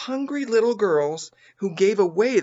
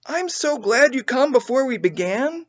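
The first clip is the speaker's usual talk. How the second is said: put-on bright higher girl's voice, a little louder; cheerful; 8 semitones higher, 3 dB louder than usual. A narrator's reading. Nan glad to give breakfast away. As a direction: sound glad and eager. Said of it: "said Nan cheerfully".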